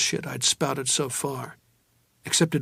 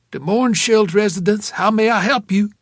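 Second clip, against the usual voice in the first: higher, louder maid answering the phone; 7 semitones higher, 7 dB louder than usual. A narrator's reading. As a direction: lift the voice into a maid's polite greeting. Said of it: "a maid, probably".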